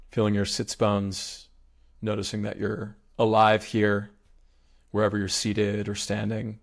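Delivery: even meditation guide, pausing between phrases; unhurried, spacious mindfulness instruction; guided meditation. Real, not acted. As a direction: guide their attention through the body. Leads body awareness meditation.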